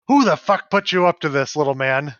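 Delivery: offended barkeep snapping back; angry old bartender. Acted. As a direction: bark it at the prankster. Bartender confronts the joke order.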